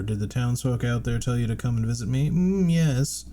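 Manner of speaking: Salubra voice. Acted. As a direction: play an eager old charm seller.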